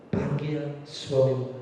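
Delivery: soft and slow, a kind request; gently. Retold or imitated. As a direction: say it gently, no reproach. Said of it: "dengan halus". (dengan lembut dan pelan)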